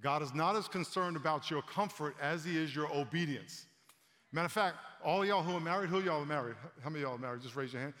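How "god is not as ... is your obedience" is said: weighty preacher emphasis with breaks; pauses for emphasis. Shown as a demonstration. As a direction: let each phrase land on its own, comfort and then obedience. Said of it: "I'm gonna pause for emphasis".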